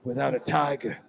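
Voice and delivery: a lightly voiced old local, spinning town gossip; folksy old townsman. Game master to players, lightly voiced folksy old man. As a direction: tell it like a nervous old local.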